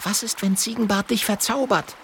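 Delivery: put-on high girlish voice; a high, worried child's voice; Mathilda's voice. A narrator's reading. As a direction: voice the worried little girl.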